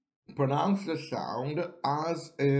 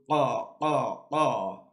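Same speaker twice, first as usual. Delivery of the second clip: chicken clucks; slower than usual. Retold or imitated. Teacher imitates a chicken to show Qaf. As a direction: cluck Qa like a hen. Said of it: "like when the chicken goes".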